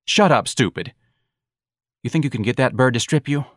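scornful boss. Acted. Boss doubting Darlene's bird act, scornful. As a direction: put the dim performer in her place.

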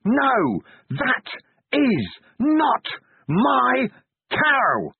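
very high, loud crying scream; anguished scream. A narrator's reading. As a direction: scream it to the gods in torment. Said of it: "and screamed".

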